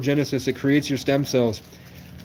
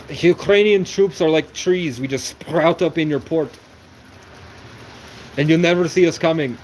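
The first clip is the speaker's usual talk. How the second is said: half-hearted mock Russian accent, teen humour; a hint of a hammed-up Russian accent; 4 semitones higher than usual. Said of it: "practice my Russian accent".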